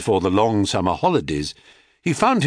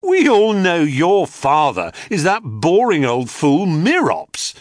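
jeering shout; 7 semitones higher, 4 dB louder than usual. A narrator's reading. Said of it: "one of them shouted".

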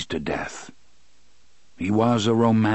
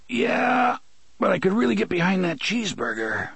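put-on high, fast wisecracking young man; Eddie voice; 9 semitones higher than usual. A narrator's reading. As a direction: quip it off brightly through the pain. Eddie voiced, much higher, fast.

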